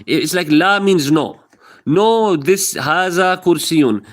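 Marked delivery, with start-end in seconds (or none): 2.4-4.0 slow teaching. Shown as a demonstration. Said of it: "learn this by Arabic".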